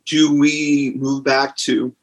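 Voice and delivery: slow words, choking on spit. Real, not acted. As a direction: get through it while choking on spit. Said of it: "I'm choking on my own spit".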